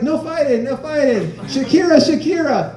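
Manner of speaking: high mock rapper chant. Comic mimicking a rapper's opening lines, high mock chant. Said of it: "he's like".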